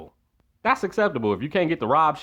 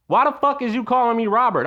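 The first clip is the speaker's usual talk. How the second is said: annoyed; 8 semitones higher, 4 dB louder than usual. Real, not acted. Annoyed outburst.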